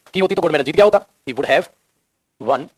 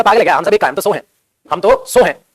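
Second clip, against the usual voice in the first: mock scoff; 4 dB louder than usual. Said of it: "अभी पागल हो गया".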